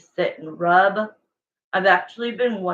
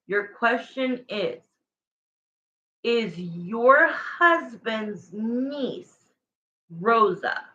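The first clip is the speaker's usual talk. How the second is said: slow and careful; slower than usual. Shown as a demonstration. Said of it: "Let's get this right".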